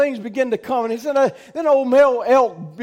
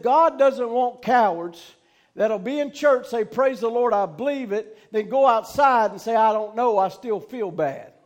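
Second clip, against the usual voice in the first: deliberate, spaced-out repeat; measured restatement for the congregation; slowed down. Real, not acted. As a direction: say it slower so it sinks in. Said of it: "I need to slow down just a second".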